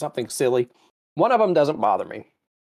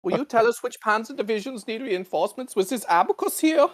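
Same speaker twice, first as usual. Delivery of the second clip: hammed-up commander demanding a supply report; mock Nazi commander; 9 semitones higher than usual. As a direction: bark orders like a cartoon general. Parodying Nazi commander asking for supplies.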